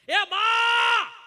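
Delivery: long, high call across the fields; high drawn-out shout calling mother from the far edge of the field. Retold or imitated. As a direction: stretch the call to reach far off.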